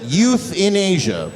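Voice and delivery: "youth in Asia" slow, as separate words; split-word pronunciation. Shown as a demonstration. Comic explaining the respelling, "youth in Asia" slowly separated. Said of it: "we won't spell it that way".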